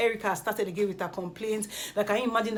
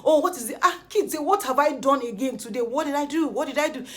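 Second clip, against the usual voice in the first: higher, exasperated protest; exasperated retort; 5 semitones higher, 4 dB louder than usual. Retold or imitated. Kid protesting to Erica over being blamed, exasperated. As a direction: push back as if wrongly accused again. Acts out Kid's exasperated quarrel.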